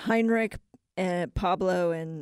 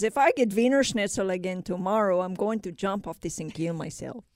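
badly faked German accent; lightly put-on German grumbling. German worker threatening to jump over lunch, bad German accent. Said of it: "that's a bad German accent".

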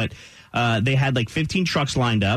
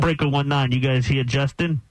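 CB radio trucker. Retold or imitated. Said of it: "talk about our show on the C B".

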